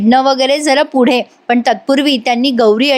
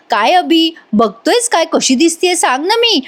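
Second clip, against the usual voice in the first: coy teasing; 5 semitones higher than usual. Retold or imitated. Ragini flirts with Abhi.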